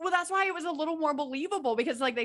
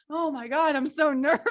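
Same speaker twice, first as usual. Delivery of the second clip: laughing; 4 dB louder than usual. Retold or imitated. Quoting nervous driver, laughing.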